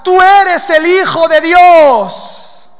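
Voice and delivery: loud, high, drawn-out cry; full-voiced demonic proclamation; demons' shout. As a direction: shout it slowly, stretching to the last word. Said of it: "se postraban delante de él y gritaban".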